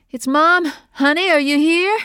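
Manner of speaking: loud high anxious call. Acted. Mother calls to her lost daughter, loud anxious call. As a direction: call into the darkness. Calling into dark pipe.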